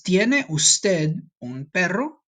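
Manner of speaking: put-on slow girl's line. Shown as a demonstration. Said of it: "So she says".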